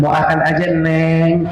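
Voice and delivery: put-on says "akan" for makan, cutesy babyish; husband's cadel baby talk, dropping the m; lisping baby talk. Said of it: "ngomong kagak cadel aja dicadel-cadeli".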